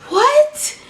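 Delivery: high breathless whispered what; a gasp of outraged disbelief; shocked whispered what; stunned disbelief. Retold or imitated. Disbelief at the accusation.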